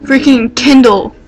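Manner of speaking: breathless fan gush; excited. Real, not acted. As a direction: swoon over the idol. Gushing about idol.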